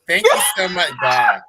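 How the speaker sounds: overly perky goodbye to the driver, way up high; chirpy thank you. Retold or imitated. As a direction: squeak it out bright and high. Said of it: "I'm like".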